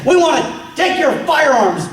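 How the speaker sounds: mock demand. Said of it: "They come and they say".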